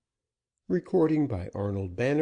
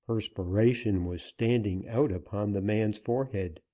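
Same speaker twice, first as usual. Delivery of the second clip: ordinary delivery, nothing marked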